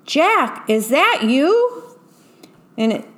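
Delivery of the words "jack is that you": much higher distant call; loud voice calling. A narrator's reading. Enemy pirate calling to Jack from afar, high call. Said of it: "a loud voice cried out".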